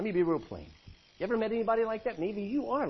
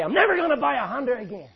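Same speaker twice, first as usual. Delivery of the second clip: fast, louder fed-up vow; mock huff; 4 semitones higher, 6 dB louder, faster than usual. Imitating an angry driver swearing off Honda, fast and huffy. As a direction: blurt it like a sulking car owner. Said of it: "You say".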